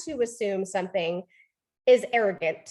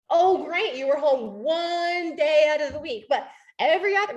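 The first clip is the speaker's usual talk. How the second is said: sarcastic comeback; 3 semitones higher than usual. Acted. Partner answering a defensive excuse, sarcastic. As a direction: fire back with exaggerated sarcasm.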